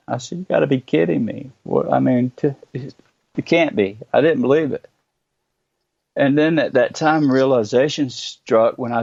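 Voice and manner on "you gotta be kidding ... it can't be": retold disbelief. Learns hours have passed.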